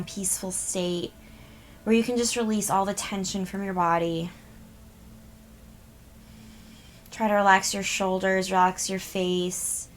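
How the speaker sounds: even meditation voice with long pauses; guided meditation. Real, not acted. Healer tells listeners to release tension, guided meditation voice. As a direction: guide listeners gently into relaxing, phrase by phrase.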